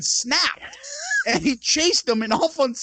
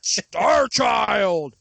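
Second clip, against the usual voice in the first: ring announcer shout. Pretend. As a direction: boom the wrestler's name. Announcing the wrestler's name.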